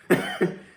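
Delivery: short breathy burst of laughter; quick amused chuckle. Real, not acted. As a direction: laugh at your own story. Laughs at own anecdote.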